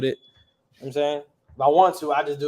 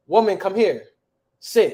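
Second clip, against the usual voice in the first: louder, blunt order; direct masculine command; 3 semitones higher, 6 dB louder than usual. Retold or imitated. Teacher imitating how ancient Hebrew spoke, direct command. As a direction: order her plainly and directly. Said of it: "it was a direct language, like a masculine language".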